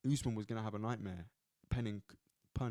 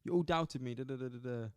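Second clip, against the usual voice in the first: put-on poor Nigerian accent. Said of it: "Poor accent, isn't it?".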